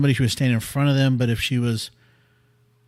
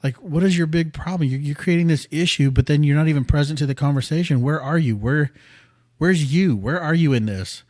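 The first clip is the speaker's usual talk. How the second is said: exasperated retold nagging; 4 semitones higher than usual. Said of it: "kept saying".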